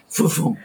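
"vroom, vroom" as a blast noise; imitated blast rumble. Telling how the whole house went, imitated rumble. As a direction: mimic the house lifting with the blast. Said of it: "The whole house went".

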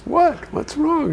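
high, worried asking; lightly voiced woman asking what's wrong; concerned shopper. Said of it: "And she says".

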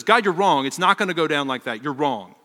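loud, insistent objection to God; protesting Moses. Retold or imitated. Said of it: "Here Moses says".

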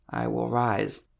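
strained, effortful declaration; voice cracking with effort. A narrator's reading. Sick woman repeats the cleric's words, strained with effort. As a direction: push the words out through a cracking voice. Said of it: "Her voice cracked with effort".

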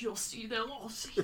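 slow, soft villainous grumble; creepy kid under his breath; imitated muttering. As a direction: mutter a vague threat to yourself. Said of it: "muttering under his breath".

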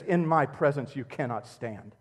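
a hint of divine rebuke, unhurried; God speaking. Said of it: "but to say this".

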